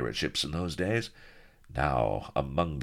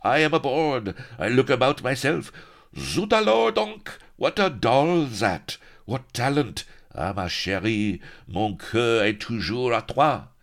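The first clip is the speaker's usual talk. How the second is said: high, prancing foppish voice with a French lilt; mincing fop; 9 semitones higher, 5 dB louder than usual. A narrator's reading. Vain pirate dandy showing off to the crew, high and mincing. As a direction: preen and flutter like a vain dandy. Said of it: "He minced and bowed and fluttered his fingers".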